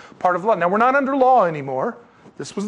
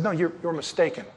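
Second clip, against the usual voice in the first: Jesus rebuking; 8 semitones higher than usual. Retold or imitated. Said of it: "and Jesus said".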